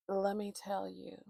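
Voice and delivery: hushed aside, let me tell you; unvoiced confiding whisper. Real, not acted. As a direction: lean in and whisper it.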